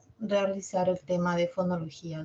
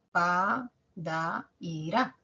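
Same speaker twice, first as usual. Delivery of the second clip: slow syllables; 3 dB quieter, much slower than usual. Shown as a demonstration. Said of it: "Pronunciamos cinco sonidos".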